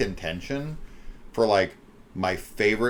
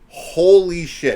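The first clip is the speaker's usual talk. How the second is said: drawn out, higher and louder gasp of awe; stunned holy shit; 8 semitones higher, 9 dB louder, slower than usual. Retold or imitated. Viewer recalling the moment the kid grabbed the wig, awed. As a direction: let it burst out slow and amazed. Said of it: "I was like".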